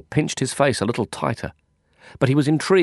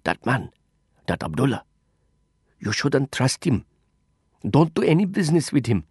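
scratchy whisper; 3 semitones higher than usual. Acted. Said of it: "he rasped in a scratchy whisper".

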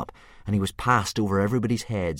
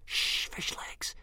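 slow unvoiced whisper; 7 dB quieter, much slower than usual. A narrator's reading. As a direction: hush your friend urgently. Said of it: "whispered Hiccup".

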